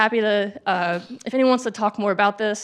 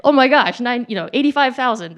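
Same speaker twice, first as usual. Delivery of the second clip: thrilled reaction; 3 semitones higher, 6 dB louder than usual. Retold or imitated. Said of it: "there is a moment where you could say".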